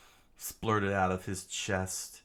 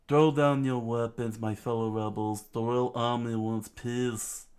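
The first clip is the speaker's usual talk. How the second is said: screamed; 3 semitones higher, 4 dB louder than usual. Acted. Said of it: "he screamed out".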